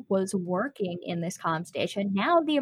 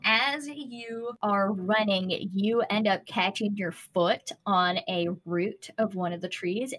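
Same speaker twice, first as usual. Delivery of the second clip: ordinary talk, nothing marked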